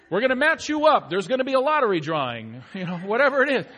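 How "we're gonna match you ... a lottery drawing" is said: mock program pitch. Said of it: "He's saying".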